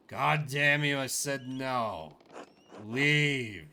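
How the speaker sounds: loud, slow, final yelling; furious shout. Acted. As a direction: bellow them out of the room. Doctor explodes, throws player out.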